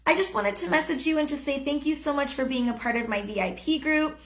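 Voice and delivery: bright, upbeat, personal tone; friendly voice message. Shown as a demonstration. Coach demoing a friendly voice message to Andrea. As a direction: sound glad to reach out. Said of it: "So you can say something like this".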